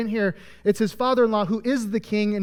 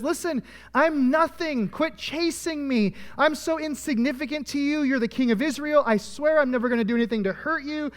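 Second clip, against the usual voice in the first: pleading; 4 semitones higher than usual. Retold or imitated. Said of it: "he's pleading with Saul".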